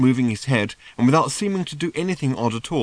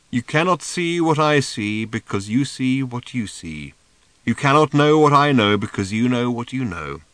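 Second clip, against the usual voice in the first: measured, louder oracle speech; sage pronouncement; 4 dB louder than usual. A narrator's reading. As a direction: lay out the riddle like a guru. Seer's riddling wisdom.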